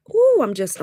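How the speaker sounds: high, excited ooh; bubbling over, words tumbling to a halt; so worked up the sentence breaks off; overexcited. Real, not acted. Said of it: "calm down, Kisa, calm down".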